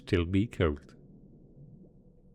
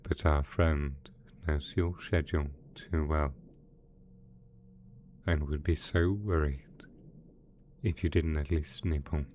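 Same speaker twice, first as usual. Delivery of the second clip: gentle coaxing; 2 semitones lower than usual. Acted. Villain coaxing two pet dragons to eat, gently soothing.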